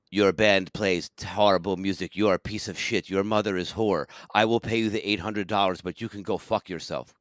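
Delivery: lightly voiced Russian club owner; Russian accent. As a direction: deliver measured insults with a hint of Russian accent. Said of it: "he goes just like this".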